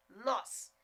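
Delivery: NÓS with one pure open O, "nós"; standard pronunciation as written. Shown as a demonstration. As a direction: say NÓS with no I glide. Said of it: "que esse nós se escreve nós".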